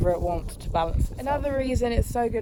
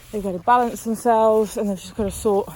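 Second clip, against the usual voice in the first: breathless, talking between breaths; out of breath from lunging. Real, not acted. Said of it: "sorry, I'm so out of breath".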